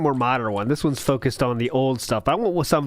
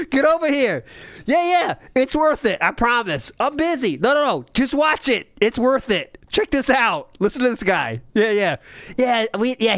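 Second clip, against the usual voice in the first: excited, higher voice of an intern pulling coworkers over; imagined intern; 4 semitones higher than usual. Retold or imitated. Intern in the Twitch office calls coworkers over, excited. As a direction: urge your coworkers to come watch. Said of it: "like, the intern office".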